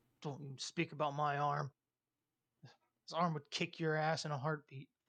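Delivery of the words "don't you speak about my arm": grumbling growl through the teeth. Voicing a character answering an insult about his army: growling, grumbling. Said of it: "he growls and grumbles".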